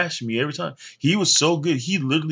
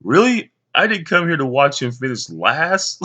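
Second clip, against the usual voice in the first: disappointed dad; 4 dB louder than usual. Retold or imitated. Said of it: "his dad was so disappointed".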